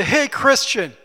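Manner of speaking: lightly voiced taunting critics; a hint of hecklers jeering at the Christian; mocking opposition. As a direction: sneer it like a scoffing crowd. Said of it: "they sound like this".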